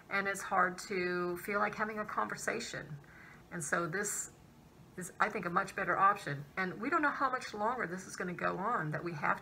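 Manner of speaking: speaking behind plastic shield; through a face shield. Real, not acted. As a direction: clear plastic over mouth. Seen 3: Clear plastic shield on glasses covers mouth throughout; removed near +23.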